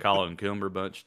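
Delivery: rounded Southern take on the name; Southern accent. Shown as a demonstration. Co-host shows the villain's old name, Southern accent. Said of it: "he rebranded from Southern to Minnesotan".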